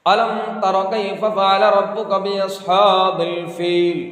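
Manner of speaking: slow, melodic chanted surah; Quranic recitation. Acted. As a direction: intone each verse slowly like an imam. (धीमी, सुरीली क़िरात)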